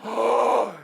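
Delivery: high, loud mock gasp; awed gasp. Audience reacting to the booming announcer, awed gasp. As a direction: gasp like an amazed crowd.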